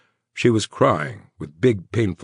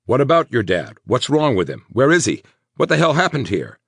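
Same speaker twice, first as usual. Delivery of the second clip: urgent; 9 semitones higher, 5 dB louder than usual. A narrator's reading. Man demanding answers urgently.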